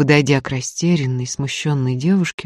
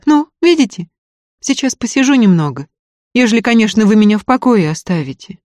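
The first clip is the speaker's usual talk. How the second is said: a lightly voiced young peasant woman, higher and firm; proud peasant girl; 6 semitones higher, 5 dB louder than usual. A narrator's reading. Varya telling the student she defends herself, higher and proud.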